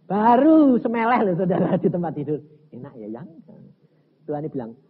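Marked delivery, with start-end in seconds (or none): 2.8-3.3 softer, lower cosy question; contented husband. Retold or imitated. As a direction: murmur contentedly to the wife. Berbaring santai, bicara kepada istri. (bertanya santai dan puas)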